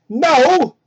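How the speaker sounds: mock loud no. Amy line.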